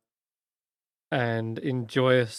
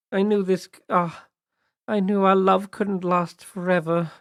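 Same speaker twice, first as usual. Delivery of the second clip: wistful fairy voice; 6 semitones higher than usual. Acted. Pollinella wistful character voice.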